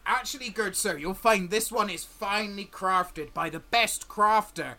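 lightly voiced scruffy salesman; a fawning trader reeling off his wares; stall merchant. GM as merchant selling tools to the party, lightly voiced. Merchant's crafted-brush pitch.

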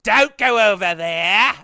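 half-laughing warning; laughing mock warning. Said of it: "mocking accent quote".

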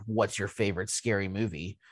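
quiet menacing horror-movie caller; Ghostface voice. Acted. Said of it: "in my best ghost vo-, Ghostface voice".

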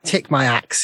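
high, drawn-out snarling challenge; angry enemy's snarl, words stretched out. Acted. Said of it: "he sort of snarls at you and goes".

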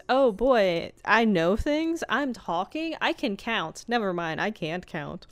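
wide-eyed snowman discovering his own voice; dopey Frosty voice. Retold or imitated. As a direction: play Frosty amazed he can talk. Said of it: "He goes".

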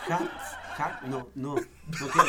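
giggling no; laughing refusal. Real, not acted. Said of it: "cómo se ríen". (negarse riendo)

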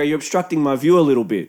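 brisk restatement, evenly run through. Retold or imitated. Beachgoer repeating his complaint to the tent owners, brisk and matter-of-fact. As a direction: repeat it quickly without leaning on any word.

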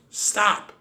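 high, loud panicked shriek. Acted. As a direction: stop him before he throws. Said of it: "I shrieked".

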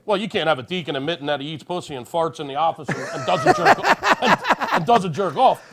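laughing through the words; can barely get it out for laughing. Real, not acted. Laughing through the deacon story.

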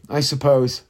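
ordinary talk, nothing marked

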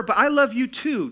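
loud, high insistent reassurance; mock-earnest cheating husband; placating cheater. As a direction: push the excuse on a doubting wife. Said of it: "That does not work".

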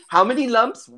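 put-on eager old hobbit hostess; hospitable grandmother. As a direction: chirp it like an old lady pouring tea. Grandmother hostess serves tea.

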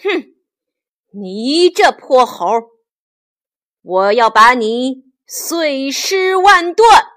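huff, then hit the threat hard; angry emperor. Acted. Jade Emperor threatening the captured monkey, acted anger. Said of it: "玉皇大帝他太生气了".

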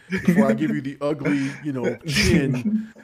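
wavering, half-choked self-imitation; a lightly wobbling near-cry; mock quivering voice. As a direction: pretend you're fighting back tears. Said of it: "my voice is quivering".

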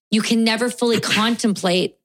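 clearing a choked throat; coughing up water. Real, not acted. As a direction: talk past water down the wrong pipe. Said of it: "spicy water went down the wrong pipe".

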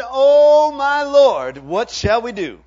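servant's terrified outcry; panicked servant. Acted. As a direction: cry out in terror at the army. Congregation's own panicked cry.

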